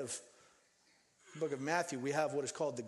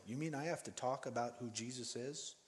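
reluctant churchgoer; 4 semitones lower, 7 dB quieter than usual. Retold or imitated. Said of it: "this is where people really get uncomfortable".

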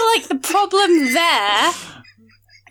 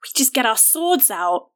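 lower character voice; 4 semitones lower than usual. Acted. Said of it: "she's like".

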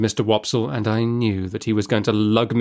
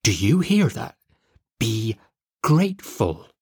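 low reproachful voice. A narrator's reading. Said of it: "in a low, reproachful voice".

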